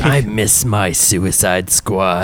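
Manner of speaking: slow, sad sigh of a line. Acted. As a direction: say it wistfully, slowly. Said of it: "Sable kinda sadly".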